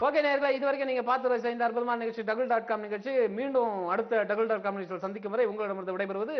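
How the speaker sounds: announcer sign-off; host thanking the viewers; show host sign-off. Acted.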